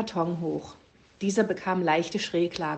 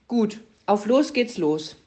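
The speaker drawls the command "los" slowly and clearly; slow announcing; 3 semitones higher than usual. Acted. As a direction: spell out "auf los geht's los" slowly.

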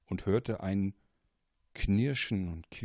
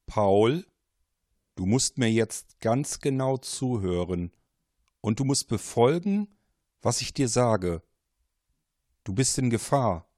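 a mysterious caller, urgent and a little louder; 4 dB louder than usual. Acted. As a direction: press the warning home. Mysterious caller warns Paul.

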